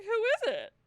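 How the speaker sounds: high, loud singsong call. Retold or imitated. Woman in undies answering the door, calling out. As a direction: imitate calling toward the front door.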